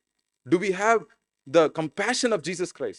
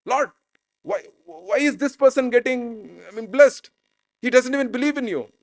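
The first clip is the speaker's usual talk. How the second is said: higher-pitched, mildly indignant protest; a touch of angry disbelief, higher; angry complaint; 5 semitones higher than usual. Acted. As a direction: complain to God with mock grievance. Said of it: "Angry because".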